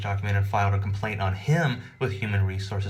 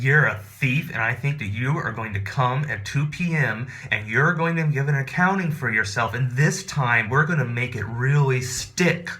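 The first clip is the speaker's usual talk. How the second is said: loud accusation; 3 semitones higher, 4 dB louder than usual. Retold or imitated. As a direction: announce it so everyone hears. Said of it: "very loud voice".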